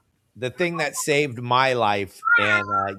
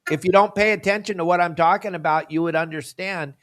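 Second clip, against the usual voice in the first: genuinely pissed; 3 dB louder than usual. Real, not acted. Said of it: "I just get pissed when I talk about it".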